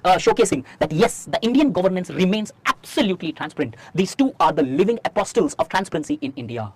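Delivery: slow, measured dictation of a model answer. Acted. Teacher to students taking notes, slow dictation. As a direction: spell the answer out slowly so students can write it.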